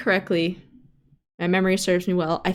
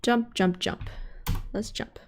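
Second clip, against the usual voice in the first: whispering while hiding; 10 dB quieter than usual. Real, not acted. Sneaking past danger in game.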